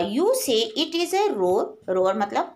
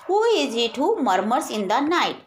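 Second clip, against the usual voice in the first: slow poem recitation; much slower than usual. Acted. Teacher reading the poem line to her class, slow and measured. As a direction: draw out each word slowly, recitation style.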